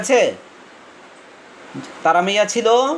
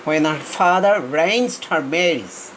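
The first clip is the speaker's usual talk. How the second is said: each word stretched out very slowly; slow reading aloud; much slower than usual. Shown as a demonstration. Teacher rereads the sentence for students, very slowly. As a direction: read it out word by word. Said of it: "slow dictation reading".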